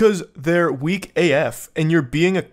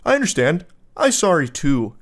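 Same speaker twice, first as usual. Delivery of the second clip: lightly voiced dim caveman; a hint of caveman grunt; caveman mode. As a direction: say it like a meek caveman. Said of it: "Going caveman mode".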